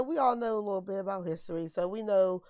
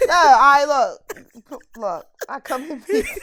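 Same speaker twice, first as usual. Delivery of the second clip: E.T. voice; 6 semitones higher, 12 dB louder, slower than usual. Pretend. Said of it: "I'm trying to put my fingers up".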